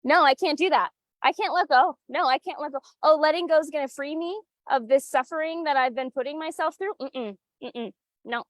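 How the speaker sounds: stubborn client, lightly imitated; mock pushback voice. Coach imitates a client pushing back on advice. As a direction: refuse like a client who won't let go. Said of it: "there is so much pushback".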